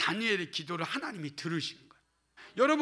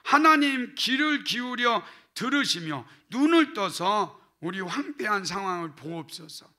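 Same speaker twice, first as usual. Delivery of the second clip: bold direct prayer. Shown as a demonstration. Pastor shows the congregation a daring prayer, pleading. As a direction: call on God boldly. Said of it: "이렇게 기도할 수 있어".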